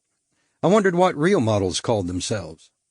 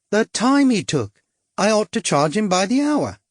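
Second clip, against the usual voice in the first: higher, coy cockney come-on; cockney prostitute; 8 semitones higher than usual. A narrator's reading. Suzette luring the stranger, coy cockney come-on. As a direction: tease him in, sweet and brassy. Suzette jokes about client.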